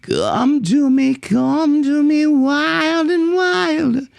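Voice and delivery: nasal high singing sliding in; twangy onsets. Shown as a demonstration. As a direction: slide into each onset through the nose. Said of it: "sliding into and out of the nose".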